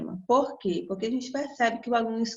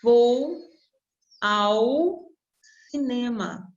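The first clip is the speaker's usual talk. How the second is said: "Vou" louder, words spaced with pauses; example sentence; 4 dB louder, much slower than usual. Shown as a demonstration. Teacher reading out the example for the students. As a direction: say "Vou ao cinema" slowly and clearly. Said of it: "Quer ver um exemplo".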